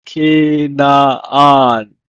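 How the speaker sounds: Canaan said loud as ke-na-an, long falling; Hebrew pronunciation. Shown as a demonstration. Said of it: "So for Canaan".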